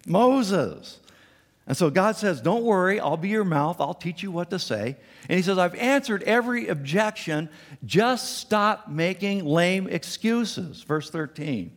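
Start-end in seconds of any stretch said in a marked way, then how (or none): 2.4-10.8 higher, louder, impatient God; voicing God. God answering Moses, firm and impatient. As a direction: lose patience with the excuses.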